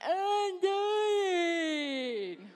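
high, loud crying shout; desperate cry. Retold or imitated. Mother on the operating table crying out to everyone, loud and desperate. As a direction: cry out that you're dying. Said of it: "finally I find my voice".

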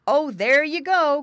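high, loud piglet complaint; crying out crossly. A narrator's reading. Older pig quarrels with brother, crying out crossly. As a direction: cry out in exasperation at your brother. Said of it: "cried the older pig boy".

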